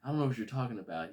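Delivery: high, loud mock surprise; blurting a flustered denial; startled Peter. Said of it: "He's like".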